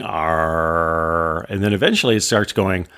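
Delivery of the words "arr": low growled arr; filmmaker's arr. Retold or imitated. Retelling the professor's strange film, a low growled arr. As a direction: drag out a low pirate-like arr. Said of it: "So the voice keeps going".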